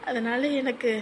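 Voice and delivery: quietly tearful confession; restrained, weary sadness on the verge of crying. Acted. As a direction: speak softly, close to tears. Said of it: "எதுக்கு அழுதுகிட்டு இருக்க".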